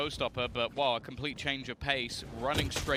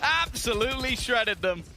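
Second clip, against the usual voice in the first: loud, high, thrilled yelling; excited shout; 9 semitones higher, 6 dB louder than usual. Real, not acted. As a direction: erupt as the kill lands. Big play, caster erupts.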